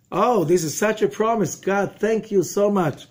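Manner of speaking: high, loud mock gushing; hammed-up fake rapture; sarcastic gratitude. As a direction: overdo the thanks as if thrilled. Mock thanks for grim promise.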